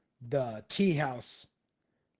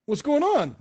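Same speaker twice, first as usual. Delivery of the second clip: loud, high-pitched holler; big hearty hello; boisterous greeting; 13 semitones higher, 10 dB louder than usual. Acted. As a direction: hail your buddy at full volume. Kung Po hails Uquill.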